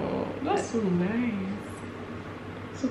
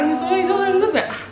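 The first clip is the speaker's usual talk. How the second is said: high laughing disbelief; 12 semitones higher, 4 dB louder than usual. Real, not acted. Roommate wondering if she is as caring, laughing high. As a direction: laugh at your own surprise.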